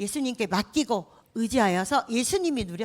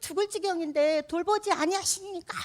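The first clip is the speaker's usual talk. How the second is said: reproachful complaint; 7 semitones higher than usual. Pretend. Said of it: "이렇게 막 원망하고 따지는 거예요".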